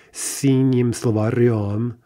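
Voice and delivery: словарём stressed on the final -ём. Shown as a demonstration. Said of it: "only in the stressed position".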